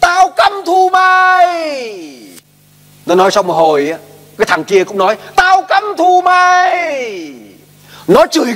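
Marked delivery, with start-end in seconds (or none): 0.0-2.2 slow, high, drawn-out furious yell; angry shout at mountains. Retold or imitated. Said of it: "nó kêu lên". 5.3-7.3 far-off, high, slow echoing yell; as if the mountains call it back; echo shouting back. Retold or imitated.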